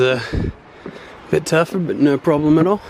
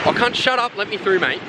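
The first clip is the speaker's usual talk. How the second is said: high, cheeky Aussie demand; pushy Australian; 8 semitones higher than usual. Retold or imitated. Imagined Aussie tourist to guard, high cheeky demand. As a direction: brush past the guard, mate. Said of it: "the Australian in me wanted to be like".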